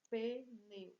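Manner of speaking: pneu split pe, neu with a gap; syllable by syllable. Shown as a demonstration. Teacher showing two syllables, pneu broken apart. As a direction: count out two beats on pneu. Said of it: "Duas sílabas".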